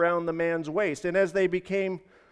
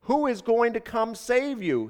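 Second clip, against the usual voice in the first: higher-pitched call; mildly raised, questioning call; 6 semitones higher than usual. A narrator's reading. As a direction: call down to the man below. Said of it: "he called out".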